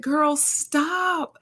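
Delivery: very high sing-song "stop"; high mock scolding. Telling the nurse off, high playful scolding. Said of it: "This is me talking to the nurse practitioner".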